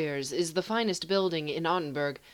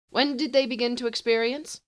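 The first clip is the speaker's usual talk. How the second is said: higher, cool inquiring sorcerer; haughty sorcerer; 7 semitones higher than usual. Acted. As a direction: ask like a detached scholar.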